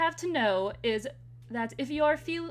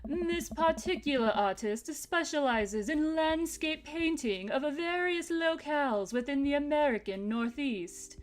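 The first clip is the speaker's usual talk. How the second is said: tour guide voice; 3 semitones higher than usual. Acted. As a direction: recite it like a docent. Formal art-guide description.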